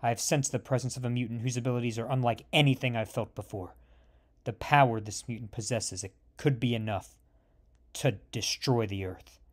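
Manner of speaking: low, soft, hushed inner voice; professor's hushed telepathic call to Scott; telepathic message. A narrator's reading. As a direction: murmur it into his mind. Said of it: "sends a telepathic message".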